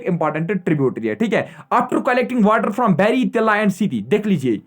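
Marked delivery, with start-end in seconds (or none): 1.7-4.0 very slow, every word spelled out for writing down; teacher reading a note aloud to the class, slow and spaced; slow dictation. Shown as a demonstration. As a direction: dictate it slowly so students can copy.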